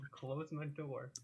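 put-on slow, quiet, sulky teenager; sulky teen. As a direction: drag it out like a moody teen. Emo teen bit.

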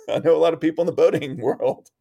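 laughing through the line; amused laugh on the repeat. Retold or imitated. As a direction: chuckle the words out at your own idea.

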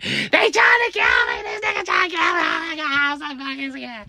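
high, hysterical panic; terrified screaming. Acted. Kid telling mom he's being killed, terrified screaming. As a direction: scream in terror, tumbling over the words. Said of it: "Why are you screaming?".

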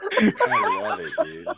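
very high, slow delighted laugh. Real, not acted. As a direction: squeal it out while laughing. Delighted by Pib's story.

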